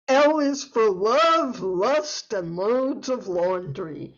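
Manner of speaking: measured, savoring poem reading; alliterative verse. Acted. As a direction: lean into each L sound. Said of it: "I am going to read an alliterative poem".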